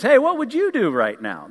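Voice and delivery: high, loud call to the guys; eager buddy talk. Acted. King asking his frat-house buddies, high and loud. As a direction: pitch jumps up, hollering to pals.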